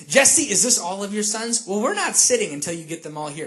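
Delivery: mildly irritated demand. Acted. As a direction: act out a touch of impatience. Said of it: "He was irritated with Jesse".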